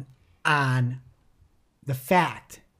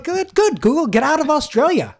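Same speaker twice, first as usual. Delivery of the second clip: much higher, louder hammed-up jeer; squeaky mock taunt at Google; mock defiant politician; 12 semitones higher, 8 dB louder than usual. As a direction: shoo Google off like a cocky politician. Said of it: "trying to hammer that point home".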